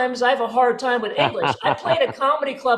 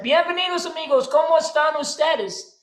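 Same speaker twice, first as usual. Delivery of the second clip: lightly voiced Spanish waiter, pitched up; Spanish-speaking waiter; 5 semitones higher than usual. Waiter welcomes two diners at Mexican restaurant, Spanish-speaking waiter. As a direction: greet guests in lively Spanish. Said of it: "the waiter said".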